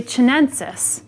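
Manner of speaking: "chinensis" starting with ch as in cheese; English ch sound. Shown as a demonstration. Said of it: "pronounced with a ch sound".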